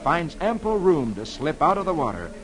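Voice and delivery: dramatic radio storyteller reading the funnies; measured, suspenseful tale-telling for young listeners; story narration. A narrator's reading. Comic Weekly Man reading Prince Valiant to boys and girls, dramatic storytelling.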